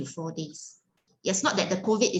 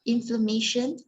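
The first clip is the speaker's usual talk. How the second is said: rhythmic incantation. Acted. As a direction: recite the healing command in steady rising cadence. Repeats a healing command.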